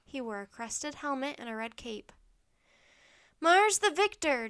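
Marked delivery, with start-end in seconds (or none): 3.4-4.5 high, loud, drawn-out cry; yelled password. A narrator's reading. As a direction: yell it to the horsemen. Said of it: "Jack yelled".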